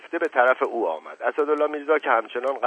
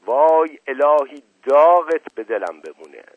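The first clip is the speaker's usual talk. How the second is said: explosive outburst; 2 semitones higher, 7 dB louder than usual. A narrator's reading. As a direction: burst out cursing the daughter. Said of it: "ناگهان ترکید".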